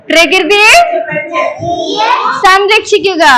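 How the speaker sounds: firmer call, broken in two for echoing; loud slogan call-out. Shown as a demonstration. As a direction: call it out phrase by phrase, rising midway. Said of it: "ഉറക്കെ പറ".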